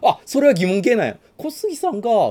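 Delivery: 小杉さんが high and loud with rising end; uptalk. Shown as a demonstration.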